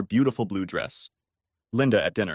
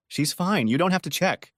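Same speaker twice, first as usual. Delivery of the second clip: apologetic; 7 semitones higher than usual. A narrator's reading. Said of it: "in an almost apologetic tone".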